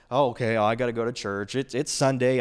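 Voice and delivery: grudging, bored sigh of a churchgoer; reluctant churchgoer. Retold or imitated. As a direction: sound like church is a chore. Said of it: "with the attitude of".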